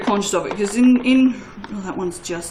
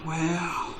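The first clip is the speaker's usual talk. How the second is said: bemused viewers; 2 semitones lower, 7 dB quieter, much slower than usual. Acted. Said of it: "now yous are all going".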